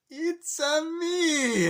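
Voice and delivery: very high, loud, slow yell; hammed-up drawn-out cartoon holler; imitated Mario catchphrase. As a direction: hold each word out triumphantly. Mario's catchphrase retold in slow motion.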